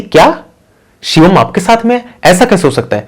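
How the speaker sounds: high-pitched startled questioning; acted shock on the phone; shocked disbelief. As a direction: jump up in pitch, stunned and disbelieving. Mother learns son is there too.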